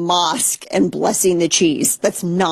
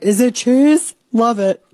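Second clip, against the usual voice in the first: excited; 5 semitones higher, 3 dB louder, slower than usual. Retold or imitated. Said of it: "I'm like".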